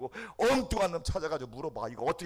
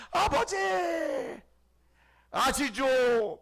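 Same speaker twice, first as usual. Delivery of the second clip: pleading prayer; 8 dB louder, much slower than usual. Acted. Preacher acts a simple prayer.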